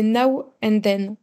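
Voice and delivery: slow, careful English title in a French accent. Real, not acted. Guest naming the new song by a famous band, slow French-accented English. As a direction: spell out the title slowly with a French accent. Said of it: "mon accent anglais, on passera".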